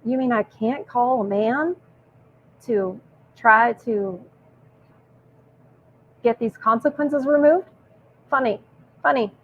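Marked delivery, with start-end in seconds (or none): 0.0-7.7 slow, mildly indignant imitation; mock indignant. Woman refused a call to her husband, mock indignant. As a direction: draw it out in mock disbelief. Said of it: "indignant that she can't".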